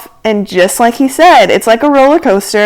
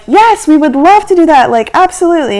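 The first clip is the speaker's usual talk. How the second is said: higher, mildly gushing retold yes; eager agreement; 6 semitones higher than usual. Group accepts the pilot's offer, eagerly. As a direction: jump at the offer, playing it up a little.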